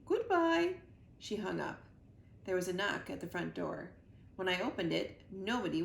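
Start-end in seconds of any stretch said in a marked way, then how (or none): 0.1-0.8 loud, high clipped farewell; curt royal goodbye. A narrator's reading. The Queen abruptly ends the call with Mac, loud. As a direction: hang up grandly.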